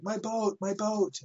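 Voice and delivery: put-on high whiny child pleading over a lost toy; child's whimpering plea. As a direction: beg for the boat like a tearful kid. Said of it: "I was like".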